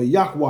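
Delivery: "Yahweh" said as YAH-kwah; variant pronunciation. Shown as a demonstration. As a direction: say "Yahweh" with a wah ending, not way. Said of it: "however you want to pronounce it".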